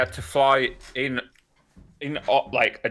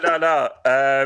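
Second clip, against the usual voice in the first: laughing refusal; 5 dB louder, slower than usual. Real, not acted. Laughs off the suggestion.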